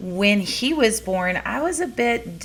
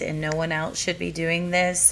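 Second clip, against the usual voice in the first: normal talking voice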